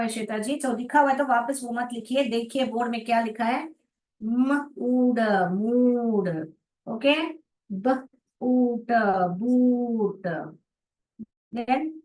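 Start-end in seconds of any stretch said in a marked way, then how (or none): 4.2-6.3 म, then ऊड very slow, then मूड; blending मूड. Shown as a demonstration. Teacher to kids, slow blending of मूड. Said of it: "जोड़ जोड़ के पढ़िए". 7.7-10.3 ब, ऊट very slow, then बूट; blending बूट. Shown as a demonstration. Teacher to kids, slow blending of बूट. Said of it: "जोड़ जोड़ के पढ़िए".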